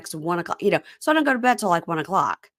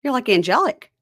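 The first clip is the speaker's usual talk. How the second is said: playful gushing; 7 semitones higher, 4 dB louder than usual. Real, not acted. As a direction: jump higher, tease her with bright awe. Teasing cohost's glowing face.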